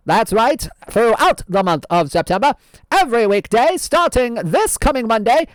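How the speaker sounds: lightly voiced old-time radio host; old-fashioned announcer voice; old-timey voice. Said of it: "I don't know how long we can keep this up".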